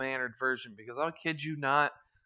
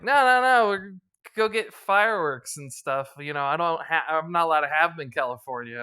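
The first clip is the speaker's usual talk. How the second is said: put-on higher, louder pleading kid cousin; lightly voiced excited cousin pleading; eager cousin voice; 4 semitones higher, 9 dB louder than usual. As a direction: beg like an excited cousin who wants fireworks. Cousin pleading in retold story.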